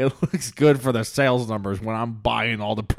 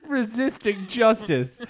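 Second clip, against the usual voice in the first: metal band name; 12 semitones higher, slower than usual. Pretend. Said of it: "sounds like a name of a metal band".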